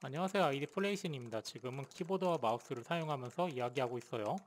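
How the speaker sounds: very quiet voice through an unboosted mic; under-amplified recording, barely coming through; faint mic recording. Shown as a demonstration. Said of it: "목소리가 되게 작게 들리죠". (증폭 전 아주 작게 녹음된 목소리)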